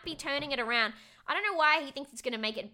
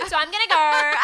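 loud, higher, breaking into laughter; laughing awkward exit; 8 semitones higher, 13 dB louder than usual. Retold or imitated. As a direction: act out a hasty exit, cracking up. Jokes about her awkward escape.

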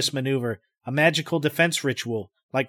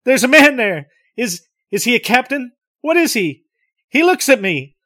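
terrified; 10 semitones higher, 8 dB louder than usual. Acted. Terrified sighting of a figure.

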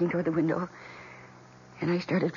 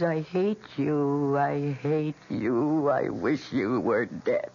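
slow, low, chanting hatred; crying with rage; 3 semitones lower, much slower than usual. Retold or imitated. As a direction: repeat it like a curse, slowly. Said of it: "repeating those awful words".

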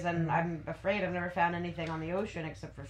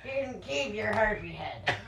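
put-on Fargo accent; 3 dB quieter than usual. DM repeating the fisherman's line, wandering Fargo accent. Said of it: "I'm falling asleep from Fargo".

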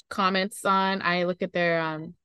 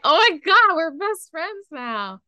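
mock gushing; 7 semitones higher, 5 dB louder, slower than usual. Gushing quote after alligator.

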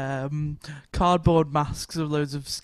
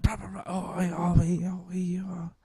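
put-on Scouse accent; 4 dB quieter than usual. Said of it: "the Scouse accent is very, very active".

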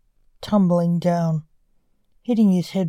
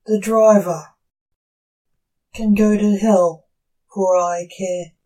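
loud, raised angry voice; angry outburst; 5 dB louder than usual. Acted. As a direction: spit it out in anger. Son's angry outburst at reaper.

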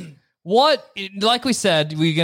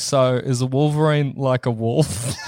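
put-on kid asking; 7 semitones lower than usual. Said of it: "and I'll be like".

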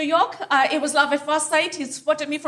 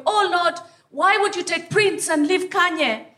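churchgoing lament; 3 semitones higher than usual. Retold or imitated. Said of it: "wear a church going".

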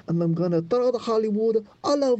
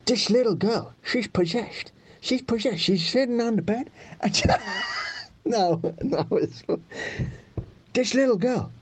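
bad Al Pacino. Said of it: "a shit Al Pacino".

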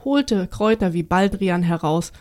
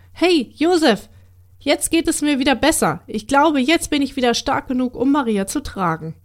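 eager calling out; 5 semitones higher, 4 dB louder than usual. Acted. Mule calls out eagerly to Josef.

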